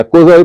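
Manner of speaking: "قضا بھی" with an "o" vowel after the q; third variant reading. Shown as a demonstration. Teacher showing students another reading, "قضا بھی" opened with "qo". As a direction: say "قضا بھی" starting "qo", not "qa". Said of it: "دو یا تین طرح سے ملی ہے".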